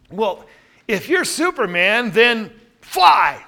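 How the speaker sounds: skeptical dare, punched loud on fly; doubting challenge. Shown as a demonstration. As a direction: challenge them to prove it, doubting. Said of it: "What am I showing doubt on".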